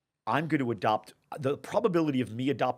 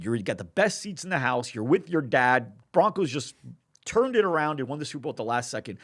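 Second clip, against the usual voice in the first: building louder and higher as the game is won; excited storytelling; 3 semitones higher, 5 dB louder than usual. Retold or imitated. To a friend, reliving a Super Bowl win, growing excited. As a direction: paint the last-second win with rising thrill.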